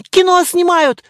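high, loud excited chirping; girls chirping. Acted. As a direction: chirp it out like thrilled schoolgirls. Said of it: "защебетали девчонки". (девчонки щебечут, высоко и громко)

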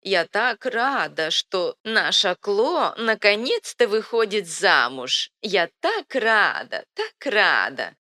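put-on high, slow, dotty old lady voice; muttering old woman. A narrator's reading. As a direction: babble happily like a senile granny. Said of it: "а только бормотала".

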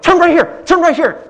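high, loud imitation of a panicking passenger; urgent shouted directions. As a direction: shout the turn like an anxious mom. Mom urgently calls out directions.

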